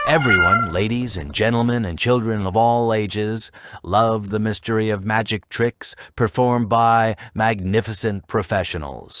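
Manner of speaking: booming circus ringmaster announcement. Pretend. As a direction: announce it like a ringmaster under the big top. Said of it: "let me put on my circus voice".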